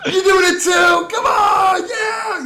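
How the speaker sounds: high loud goading yell; rowdy guards shouting. Retold or imitated. Guards urging the leader to join, shouting high. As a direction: egg them on like drunk soldiers.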